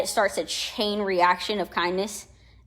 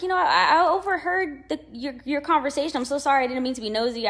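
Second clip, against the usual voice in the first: apologetic; 5 semitones higher than usual. Retold or imitated. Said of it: "I was like".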